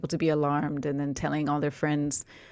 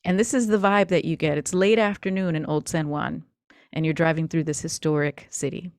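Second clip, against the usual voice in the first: story narration. Acted. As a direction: paint the scene for the players. GM narrates scene setting.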